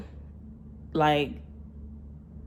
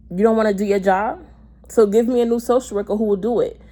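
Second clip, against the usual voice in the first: indignant retold challenge; arguing; 4 semitones higher, 3 dB louder than usual. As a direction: demand a replacement in a retold row. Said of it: "arguing with me".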